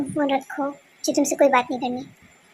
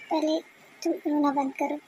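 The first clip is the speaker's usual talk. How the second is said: soft calming; 6 dB quieter than usual. Acted. Calming the crying girl.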